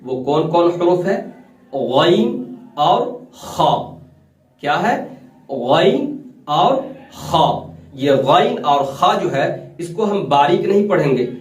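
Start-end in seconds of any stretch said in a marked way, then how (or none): 1.7-3.7 गैन and खा said full and heavy from the upper throat; throat letters demo. Shown as a demonstration. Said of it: "यहाँ से दो हुरूफ की अदायगी". 5.5-7.5 गैन and खा said full and heavy from the upper throat; throat letters demo. Shown as a demonstration. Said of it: "ये हमेशा पुर पढ़ा जाने".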